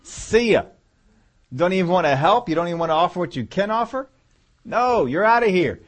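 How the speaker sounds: mock booting someone out, loud and high; dismissive shout. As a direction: throw them out with a big, high-pitched, hammed-up shout. Acting out throwing someone out.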